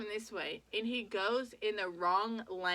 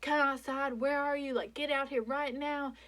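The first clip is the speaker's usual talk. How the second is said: retold panicked scream; 4 semitones higher than usual. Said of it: "and I'm screaming".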